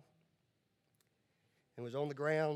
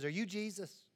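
put-on higher, small voice of a young blind girl; little girl voice; 3 semitones higher than usual. Blind girl asking the stranger, lightly voiced higher.

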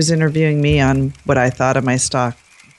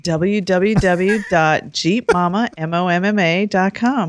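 advertisement voice. Real, not acted. Guest plugging her website on the show, advertisement voice. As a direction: recite it like an on-air advertisement. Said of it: "the change in her tone".

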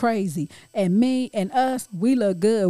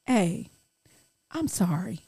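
a husband apologizing gently to his wife; mock soft apology. Imitating the husband's soft apology. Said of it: "then he'll come in and say".

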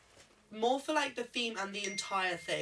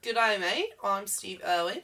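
put-on Steve Irwin Aussie accent; louder Aussie impression; Australian accent; 5 dB louder than usual. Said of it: "yours is very good".

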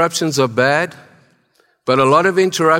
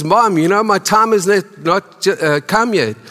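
protesting son; 6 semitones higher than usual. Retold or imitated. Jesus replying to Mary.

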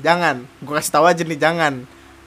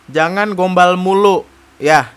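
teguran lantang; 6 dB louder, slower than usual. Real, not acted. Menegur dengan lantang.

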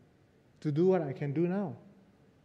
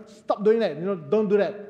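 louder sharp mock scolding of the boy; upset scolding; 4 dB louder than usual. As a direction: scold him for slamming the door. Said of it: "my wife got upset with him".

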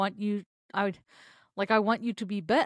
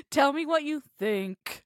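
deep flat voice; 5 semitones higher than usual. Shown as a demonstration. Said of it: "Your voice going all deep".

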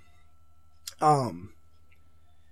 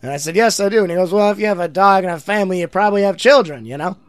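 Norm Macdonald impression; 2 semitones higher, 5 dB louder than usual. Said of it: "they like my Norm impression".

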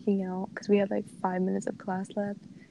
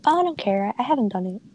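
careless classmates; 4 dB louder than usual. Retold or imitated. Imitating tablemates who don't care, mocking carelessly. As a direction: mimic a couldn't-care-less tablemate. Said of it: "they're like".

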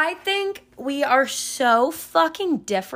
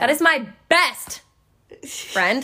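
over-the-top repeat; 3 semitones higher, slower than usual. Shown as a demonstration. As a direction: draw it out proudly. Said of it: "I wish that was on video".

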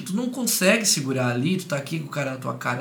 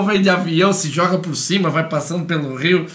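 excited joking; 2 semitones higher, 6 dB louder than usual. Acted. Joking about invading the island.

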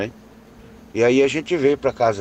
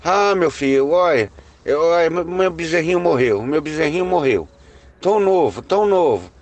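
raised, loud retelling of a near-tearful lament; retold grief over a dead calf, high and loud; almost crying; 6 semitones higher, 3 dB louder than usual. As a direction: voice Dona Maria on the verge of tears, pitched high. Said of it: "quase chorando".

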